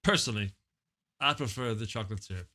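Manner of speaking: low, loosely rambling guest character; a hint of an oddball star; lightly voiced celebrity guest.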